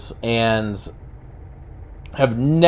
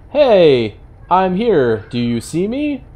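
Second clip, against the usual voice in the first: higher, playful imitation of a rabbit; lightly voiced bunny; 5 semitones higher, slower than usual. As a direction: pipe up as a mock attention-seeking bunny. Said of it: "to be like".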